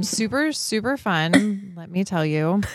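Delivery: slow dry sarcasm; sarcastic. Real, not acted. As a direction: drawl it out sarcastically. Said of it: "Is that sarcasm?".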